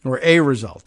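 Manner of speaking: "a" said as a full "ay", stressed; emphatic "ay" for "a", then falling. Shown as a demonstration. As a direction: correct yourself, leaning on "a" as "ay". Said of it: "Ah, be careful".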